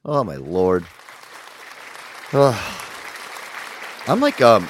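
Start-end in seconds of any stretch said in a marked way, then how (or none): 1.6-4.6 winded and sighing; short of breath, heavy sighs. Real, not acted. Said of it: "I'm getting winded".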